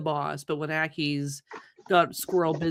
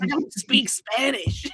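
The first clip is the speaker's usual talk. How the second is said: put-on gangster-boss accent, slow and higher; Don Vito's accent; 4 semitones higher, slower than usual. Player slipping into an old character's accent, Don Vito style. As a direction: draw it out in a mock character accent. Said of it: "going back to Don Vito's accent".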